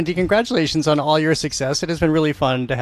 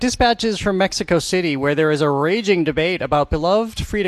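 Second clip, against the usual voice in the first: radio teaser read; 3 semitones higher than usual. Real, not acted. Host previews the next Culture Show segment, radio teaser read.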